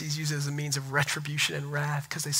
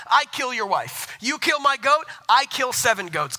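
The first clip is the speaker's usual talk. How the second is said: raised, punchy voice of a man out for revenge; mock vengeful threat; 8 semitones higher, 4 dB louder than usual. Preacher acting out a revenge-taker's threat, raised and punchy. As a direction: bark the escalating threats.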